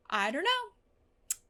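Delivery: high, drawn-out worry; anxious stress. Real, not acted. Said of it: "I'm stressed out".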